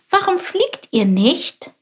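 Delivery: high, curious little bird voice; little sparrow voice. Acted. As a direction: chirp it like a small inquisitive sparrow. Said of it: "fragte Chilp". (hohe, neugierige Spatzenstimme)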